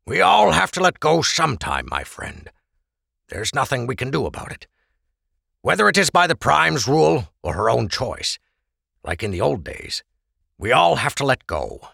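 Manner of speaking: lightly voiced Krebs, gently consoling; consoling friend. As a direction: talk a friend through letting go.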